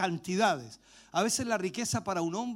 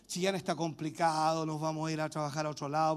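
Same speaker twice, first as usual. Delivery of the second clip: excuse; 4 semitones lower, 3 dB quieter than usual. Retold or imitated. Voices discouraged congregant's excuse.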